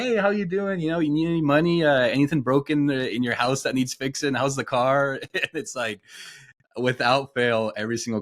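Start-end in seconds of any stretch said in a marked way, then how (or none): 0.0-5.2 much higher, louder chipper dad voice; cheery dad. Retold or imitated. Dad popping into the FaceTime call, loud and chipper. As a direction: pop in bright and rapid like dad.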